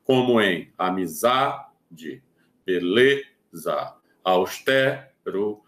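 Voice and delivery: amizade, beleza, austero drawn out slowly, one by one; slow paroxytone examples. Shown as a demonstration. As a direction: spell out amizade, beleza, austero slowly to show the stressed syllable. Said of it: "na penúltima sílaba".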